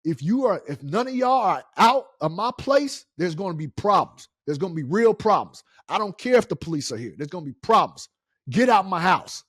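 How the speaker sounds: loud, heated warning to get out; retold yelling at squatters. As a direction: threaten them like it's your house they wrecked. Yelling at squatters in his house.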